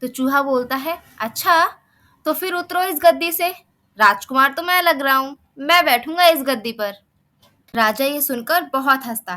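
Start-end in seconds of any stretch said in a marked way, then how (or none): 1.2-6.9 louder, higher commanding voice; a cheeky mouse bossing the king; bossy demand. Acted. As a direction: order the king off his throne. Mouse orders king off throne.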